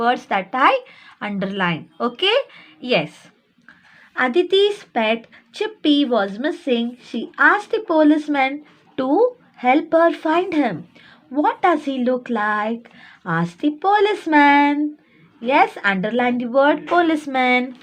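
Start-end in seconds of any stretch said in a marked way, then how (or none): 4.2-14.8 measured read-aloud for small pupils; story reading aloud. A narrator's reading. Teacher reading a textbook story to little ones, read-aloud. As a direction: read it out clearly, phrase by phrase.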